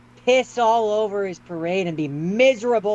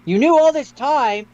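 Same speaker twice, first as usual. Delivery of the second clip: raised, accusing voice, higher pitch; angry accusation; 5 semitones higher than usual. Acted. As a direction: confront the butler who betrayed you. Voicing Harry accusing his butler.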